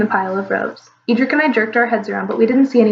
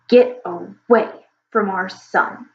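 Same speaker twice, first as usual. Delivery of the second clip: growled; much slower than usual. Acted. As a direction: menace him slowly from behind. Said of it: "a voice growled behind me".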